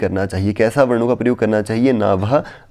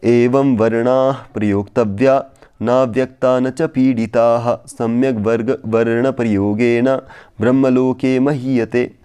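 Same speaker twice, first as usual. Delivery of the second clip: verse recitation. Shown as a demonstration. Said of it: "तो अंतिम श्लोक है".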